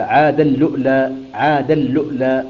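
"عاد اللؤلؤ" with the tanween merged into a doubled lam and a sukun hamza where the waw stands; "عاد اللؤلؤ": ʕād-alluʔlā with a doubled l, no hamza before the lam; Qalun recitation demo. Shown as a demonstration. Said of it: "هكذا".

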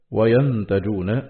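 "وينتجون" slowly as wa-yantajūn, silent nun after the ya, damma on the jim; "وينتجون" read yantajūn, not yatanājawn; Hamza's reading. Shown as a demonstration. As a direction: recite "وينتجون" with a still nun and rounded jim. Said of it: "بنون ساكنة بعد الياء وضم الجيم".

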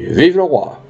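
restrained, high-pitched agreement with a voter; candidate's echo. Acted. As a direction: parrot the royalist cheer back. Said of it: "Le candidat répondit".

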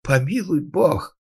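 high, slow frightened cry; terrified cry. A narrator's reading. Terrified carpenter crying out to God. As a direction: gasp it out in fear. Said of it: "Мастер был еле жив от страха".

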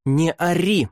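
high, loud sharp reply; loud retort. A narrator's reading. Faria answers the boy just as loudly. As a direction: shout back at him. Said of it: "так же громко ответила ему Фария".

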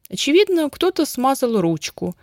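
high start, mild stifled amusement; давясь от смеха. A narrator's reading. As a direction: reason it out as if holding back laughter. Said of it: "давясь от смеха". (сдерживая смех)

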